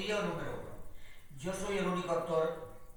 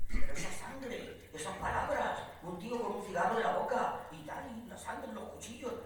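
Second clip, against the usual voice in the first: retold outrage, pitched higher; indignant; 4 semitones higher than usual. TV executives berating the dubbing director, mock indignant. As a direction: imitate a scandalised client listing complaints. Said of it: "llaman de Telecinco indignados".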